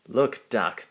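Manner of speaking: loud gleeful call; excited call. Acted. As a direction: call him over, delighted. Crew laughing, calling Duck.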